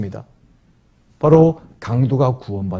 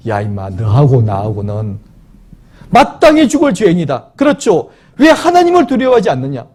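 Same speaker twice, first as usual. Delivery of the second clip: rough rebuke. Acted. Thief rebukes other thief.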